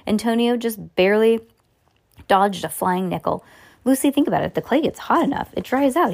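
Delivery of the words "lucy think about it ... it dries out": higher, eager exclaiming; exclaimed. A narrator's reading. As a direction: burst out with the idea. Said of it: "he exclaimed".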